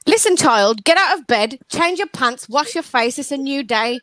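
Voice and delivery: scolding parent. Pretend. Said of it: "Stop shouting at children".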